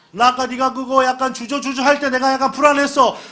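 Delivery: a know-it-all pestering Moses; nagging Israelite. Retold or imitated. Israelite blaming Moses about the road, mock whiny.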